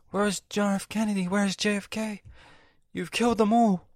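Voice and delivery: high, loud accusing God act; God impersonation. Acted. God accusing the whole crowd, high mock outrage. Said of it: "impersonates God".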